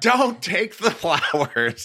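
very high, stretched-out, drawn-out scream. Retelling running down to stop the flowers being taken: imitating own screaming. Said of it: "screaming down to my car".

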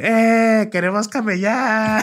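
put-on very high hollered yell. Telling how he and a friend looked for work and nobody opened, retelling a yell. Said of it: "me grité así que".

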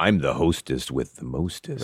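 very slow, sultry, put-on sexy voice. Introducing oneself as the hostess, in a put-on sexy voice. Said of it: "I like your, your sexy voice".

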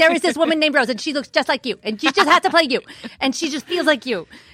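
very high-pitched, rapid-fire, rattled-off chatter. Imitating how a man talks, doing his fast-talking impression. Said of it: "he talks very fast and he does like this".

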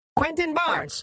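very high, brassy alien voices in unison. Two of them speak in unison, brassy, high-pitched voices. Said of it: "their brassy, high-pitched voices sounding almost as one".

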